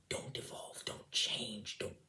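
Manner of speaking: hushed mock scream in the head; soft, insistent warning; inner voice pleading. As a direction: urge it under your breath, rising then fading. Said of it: "that was screaming at me".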